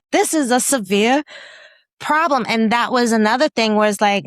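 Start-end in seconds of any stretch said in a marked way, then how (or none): 0.1-2.5 amused. Real, not acted. Laughing at herself.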